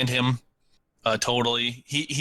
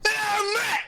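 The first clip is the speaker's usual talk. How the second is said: calling out. Retold or imitated. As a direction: hail a friend far away. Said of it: "we hear him go".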